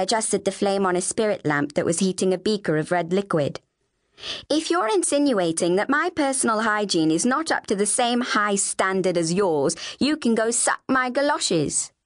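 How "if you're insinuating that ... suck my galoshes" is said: a touch of prim insolence; defiant younger sister. Acted. Flavia retorts to accusing sister.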